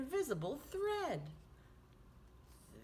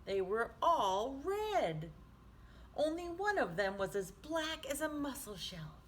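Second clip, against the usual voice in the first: lively picture-book reading; reading to children. A narrator's reading. Teacher reading Swimmy aloud to children, lively storytime voice. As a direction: read it like storytime for little ones.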